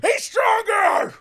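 high, loud, drawn-out yell; stretched high-pitched mock cheer; hammed-up hype shout. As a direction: bellow it like an over-the-top chant.

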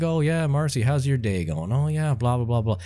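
lightly voiced small-town cop on the radio; idle cop chatter. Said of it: "'cause there's nothing going on".

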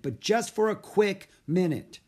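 high, loud reply; shouted condition. A narrator's reading. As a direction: call back with a firm limit. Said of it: "he shouted".

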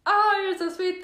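high, gushing thanks; heartfelt high coo; touched. Real, not acted. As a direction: gush as if really touched. Touched by a viewer's comment.

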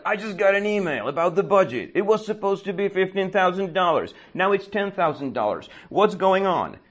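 hammed-up high-pitched complaint; high whiny caller. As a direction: whine it up high like a flustered office guy. Caller's complaint retold again.

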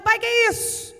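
put-on child asking. Boy asks his father about the cocoon, eager child voice. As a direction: ask like a curious small boy. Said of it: "o menino olha e fala".

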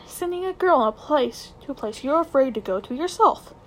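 a hint of a furious schoolboy; angry boy. Nephew calling his uncle a coward, lightly voiced anger.

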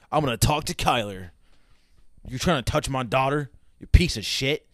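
mock angry dad shouting at a teen; mock angry father yelling. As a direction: yell it like a protective father catching a boy. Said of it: "sorry for all the cursing and yelling".

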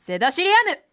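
セダシリアヌ recorded as reversed syllables; backwards speech. Shown as a demonstration. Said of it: "掛け合いながら言ってください".

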